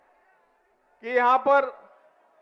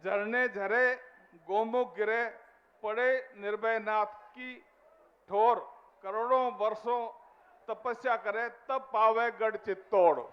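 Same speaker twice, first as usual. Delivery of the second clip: reciting a couplet; 6 dB quieter than usual. Real, not acted. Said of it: "कहते हैं".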